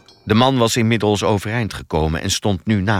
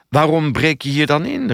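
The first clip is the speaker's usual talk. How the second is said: higher, agitated demand; raised voice, mildly worked up; calling out; 6 semitones higher, 3 dB louder than usual. A narrator's reading. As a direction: call out an accusing question. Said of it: "riep hij".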